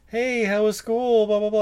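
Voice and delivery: a chirpy mom asking. Retold or imitated. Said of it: "his mom is like".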